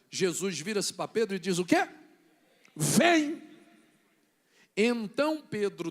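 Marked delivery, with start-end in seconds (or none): 2.8-3.4 high, loud one-word summons; calling out. Acted. Preacher as Jesus calling Peter, loud summons. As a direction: call it across the water.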